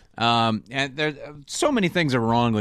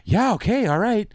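high, casual imitation of indifference; lightly acted breezy agreement; mock nonchalance; 6 semitones higher than usual. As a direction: brush it off lightly, mocking the character. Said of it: "they're all pretty light about it".

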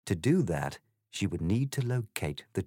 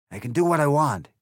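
loud, higher, sneering egg voice; rude Trumpty Dumpty; 7 semitones higher, 7 dB louder, faster than usual. Acted. The egg insults Alice, loud sneering voice. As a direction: sneer it with contempt.

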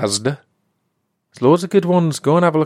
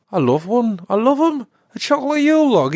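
much higher, fast gushing; excited gush; 10 semitones higher than usual. Real, not acted. Podcaster raving about chocolate Yule log, excitedly. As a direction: squeal with delight over cake.

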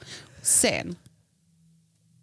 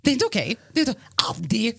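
mock drunk lament. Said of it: "så hör jag det från sovrummet så här".

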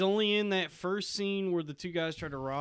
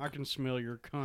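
quiet lines spoken from the side of the mouth; out of mouth corner; 4 semitones lower, 8 dB quieter than usual. Shown as a demonstration. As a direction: push it out the corner of your mouth. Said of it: "talk out of the side of your mouth".

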